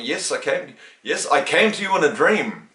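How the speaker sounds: a hint of a firm, commanding teacher; lightly voiced guru, firm and certain. Telling a visitor he came in a dream, said firmly. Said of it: "He said it very firmly".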